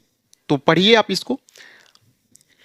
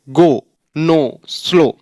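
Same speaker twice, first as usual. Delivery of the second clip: Indian style; much slower than usual. Retold or imitated. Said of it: "Indians क्या बोलते हैं?".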